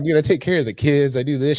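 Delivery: exasperated outburst. Real, not acted. Laughing, indignant retelling.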